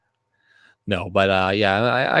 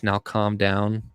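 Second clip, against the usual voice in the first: Morgan Freeman voice; 4 dB quieter, slower than usual. Retold or imitated. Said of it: "Morgan Freeman voice".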